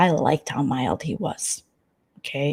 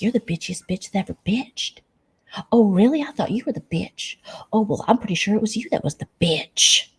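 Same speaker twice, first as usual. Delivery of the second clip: mock catfight; 3 semitones higher than usual. Acted catfight retold.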